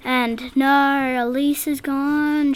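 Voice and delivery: a touch of slow, mock dismay; lightly sarcastic, drawn out on the first words; understated sarcasm about a lost sister. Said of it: "she said sarcastically".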